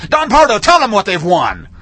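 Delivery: game show announcer. Retold or imitated. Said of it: "remember the line from some T V show".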